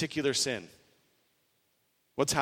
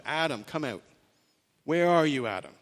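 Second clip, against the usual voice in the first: gentle drawing out. Retold or imitated. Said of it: "he's drawing him out".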